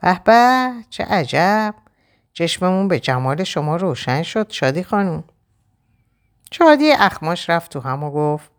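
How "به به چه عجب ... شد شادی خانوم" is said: mocking greeting. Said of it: "در حالی که لبخند به لب داشت گفت".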